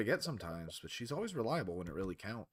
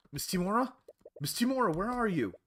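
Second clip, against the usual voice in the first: higher, anxious calling down a hallway; 9 semitones higher, 3 dB louder than usual. Acted. Searching the academy halls for his teacher, calling out anxiously. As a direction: call her name, searching.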